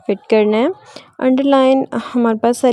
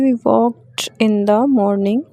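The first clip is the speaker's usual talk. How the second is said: "walked" read very slowly, ending in a crisp t; slow model reading; much slower than usual. Shown as a demonstration. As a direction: read it word by word like a teacher, "walked" with a clear t. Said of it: "तो हम लोग इसे ट की sound में pronounce करेंगे". (धीमे-धीमे पढ़ना, "walked" के आख़िर में साफ़ ट)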